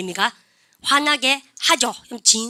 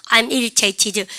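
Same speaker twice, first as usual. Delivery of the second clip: model reading; 3 dB louder, much slower than usual. Shown as a demonstration. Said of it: "시작".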